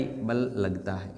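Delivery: slow, soft dictation, word by word; dictating at half speed, stressing बल. Shown as a demonstration. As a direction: spell it out slowly for the class to copy. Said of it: "क्या लगता है भाई?".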